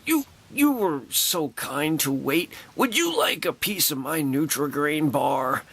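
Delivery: slow, lightly voiced sweet offer; a hint of a kind star sharing her snack; imitating Carrie Fisher. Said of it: "And she's like".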